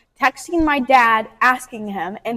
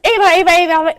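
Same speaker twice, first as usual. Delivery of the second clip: higher, louder repeated name; overwhelmed; 4 semitones higher, 5 dB louder than usual. Retold or imitated. Crying girl not explaining to boyfriend, overwhelmed. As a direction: babble the name, too worked up to explain.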